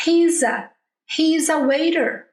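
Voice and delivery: "He's a waiter" run together, "He's" flowing into "a"; linked contraction. Shown as a demonstration. Teacher showing students the contracted, linked form. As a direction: link "He's a" with no break. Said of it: "eu pronuncio tudo junto".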